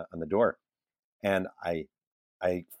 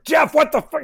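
a high mock yell of disbelief, much louder; furious editor yell; 8 dB louder than usual. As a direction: yell it like the stunned editor on the phone. Editor's outburst on phone.

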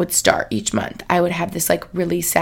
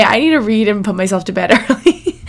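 laughing through words. Real, not acted. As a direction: laugh as you say it. Laugh heard on line.

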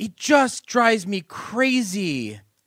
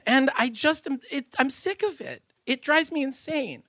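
getting emotional; 4 semitones higher, 4 dB louder than usual. Real, not acted. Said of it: "I'm sorry, I'm getting emotional".

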